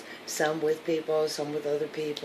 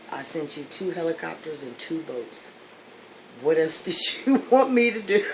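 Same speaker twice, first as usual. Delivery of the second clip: God exasperated; 4 dB louder than usual. Acted. God answers, laughing.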